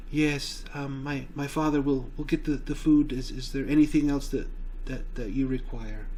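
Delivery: put-on timid, hesitant serving girl; meek, halting and unsure; quiet and meek. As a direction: stumble shyly over small words. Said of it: "she's very quiet, very meek".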